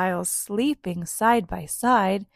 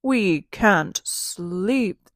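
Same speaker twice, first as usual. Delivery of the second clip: sniffled; 5 dB louder, much slower than usual. Acted. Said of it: "they sniffled".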